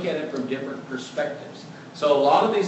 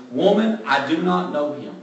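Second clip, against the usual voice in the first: raised, louder irritated retort; 5 dB louder than usual. Retold or imitated. Peter, questioned again by the servant girl, irritated and louder. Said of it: "Peter starting to get a little bit more irritated".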